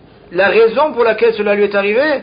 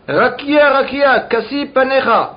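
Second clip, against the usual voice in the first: understated cry to the heavens, slightly raised pitch; retold exclamation; 3 semitones higher than usual. Teacher quotes the sage calling on the sky, mild exclamation. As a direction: call out lightly, as a teacher retelling. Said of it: "alors il s'exclama".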